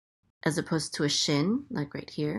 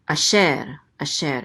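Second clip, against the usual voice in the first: "asher" with the weight on its second syllable; second-syllable stress; 4 dB louder than usual. Shown as a demonstration. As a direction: stress the end of "asher", a-SHER. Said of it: "accent is on the second syllable".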